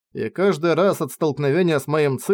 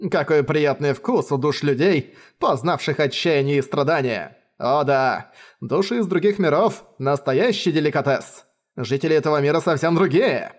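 gloating demon villain. Acted. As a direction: savour it like a fine meal. Demon savours eaten souls. (смакующий злодей)

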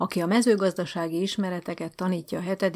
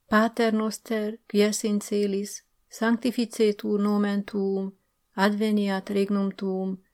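prayer recitation. Acted. New teacher reciting the Lord's Prayer to the headmaster, earnest recitation. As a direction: chant it like a dutiful schoolgirl at mass.

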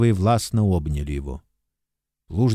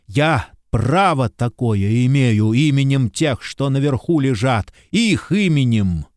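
slow, emphatic furious cry; furious shout; 3 semitones higher than usual. Acted. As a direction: hurl the threats, shaking with rage. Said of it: "Он кричал, кричал в полный голос".

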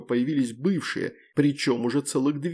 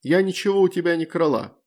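curt retort; 5 semitones higher, 4 dB louder than usual. A narrator's reading. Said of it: "отрезала Лакджа".

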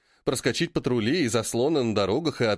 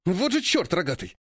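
growl; 5 semitones higher than usual. A narrator's reading. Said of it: "рычит неожиданно Уилсон".

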